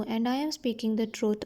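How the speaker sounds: slow, careful reading of the English text; slow story reading. A narrator's reading. Teacher reading the English line slowly to her students. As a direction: read each word out slowly for the class.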